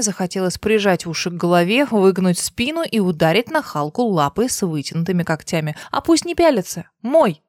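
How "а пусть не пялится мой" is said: jealous outburst. A narrator's reading. Lana jealous of the nurse.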